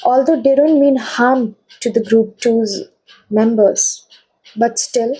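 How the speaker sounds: steady, earnest invocation; protective prayer. Acted. Reader prays for group twos' protection, steady and earnest. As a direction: call on the stone with calm command.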